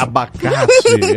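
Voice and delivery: high, slow loud exclamation; high exclaim. Acted. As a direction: stretch it out in a squeal.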